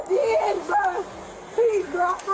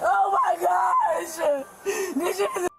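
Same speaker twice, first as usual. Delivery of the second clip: crying; much slower than usual. Real, not acted. Pleading during arrest.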